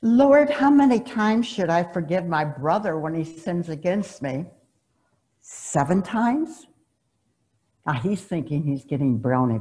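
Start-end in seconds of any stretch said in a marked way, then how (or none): 0.0-4.5 superior attitude. Retold or imitated. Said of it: "with his superior attitude". 5.4-6.7 slow, drawn-out hopeful rise; fishing for praise, slowly; smug superior question. Retold or imitated. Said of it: "with his superior attitude".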